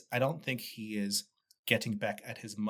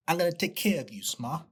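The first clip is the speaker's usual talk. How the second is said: put-on a light, rough Gotham accent; crappy Gotham accent; 6 semitones higher than usual. Host quoting Oz to his mother in a bad Gotham accent. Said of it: "This is my crap, crappy Gotham accent".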